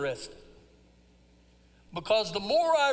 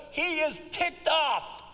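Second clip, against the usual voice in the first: emphatic shout; 5 semitones higher, slower than usual. Real, not acted. Preacher shouting to the congregation about Jonah's anger. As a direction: hammer home how angry Jonah was.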